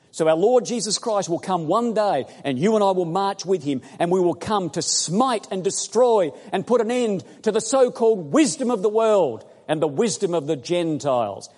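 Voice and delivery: loud, high, fervent preaching; climbing sermon fervour; preaching at full force. Real, not acted. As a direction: rouse the congregation, voice up and ringing.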